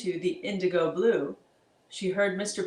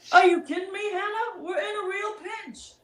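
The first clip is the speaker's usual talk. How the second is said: panicked high monster voice; 12 semitones higher, 3 dB louder than usual. Acted. Monster answers Hannah, alarmed.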